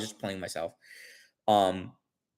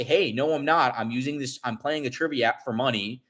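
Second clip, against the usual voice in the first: calm, softer retold explanation; very calmly; 3 dB quieter than usual. Trying to explain it to him, very calmly. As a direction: explain it evenly, trailing softer. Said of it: "very calmly".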